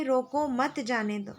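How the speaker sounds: brief break after रोको, मत joined to जाने दो; pause after रोको. Shown as a demonstration. Teacher cites the second sentence, pausing after रोको. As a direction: set रोको apart, then मत जाने दो together. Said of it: "रोको के बाद अल्प विराम के प्रयोग से".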